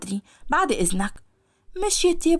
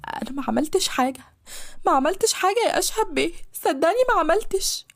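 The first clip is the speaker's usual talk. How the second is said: higher, pleading through sobs; tearful pleading; 4 semitones higher than usual. Acted. The maid pleads with Ashhab through her tears. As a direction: beg him to believe her while crying. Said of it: "بصوت مش قادر إنه يطلع بسبب شهقات العياط".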